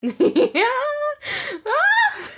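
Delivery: high, loud fan squeal; delighted squeal. Real, not acted. Viewer cheering the rooftop dance, squealing high and loud. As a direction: let out a thrilled shriek of joy.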